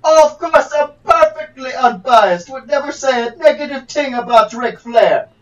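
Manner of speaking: hammy fake Nigerian accent; a put-on Nigerian lawyer voice. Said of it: "this is not a Nigerian accent".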